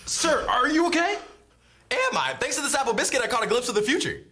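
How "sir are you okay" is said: slow concerned. Acted. Waiter checking slow on customer.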